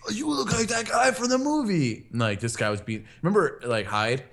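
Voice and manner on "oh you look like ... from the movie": high mock voice of a stranger; quoting a guy. Mocking the stranger who said he looks familiar. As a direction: imitate the guy, pitched way up.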